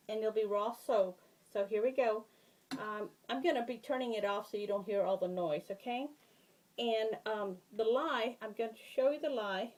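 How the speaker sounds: muffled behind a face shield. Real, not acted. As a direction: speak muffled through a visor. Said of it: "If I sound muffled, it's because I have my shield on".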